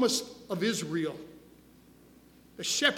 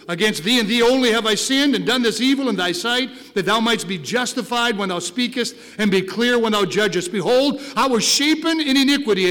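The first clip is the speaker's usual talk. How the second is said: lightly voiced pleading king, swelling louder; David's plea; 10 dB louder than usual. Pastor voicing David begging God, growing louder. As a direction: beg God as the only hope. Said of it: "He said".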